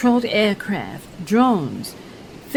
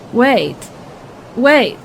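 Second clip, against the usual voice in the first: tense anticipation. Acted. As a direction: hold your breath for the explosion. Reporter awaiting the undersea blast.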